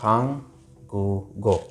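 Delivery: हांग, short pause, then गु गो; as pronounced. Shown as a demonstration. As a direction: demonstrate हांग गु गो with g starting the last syllable. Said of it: "कैसे होगा?". (हांग गु गो, आखिर में ग की आवाज़ के साथ)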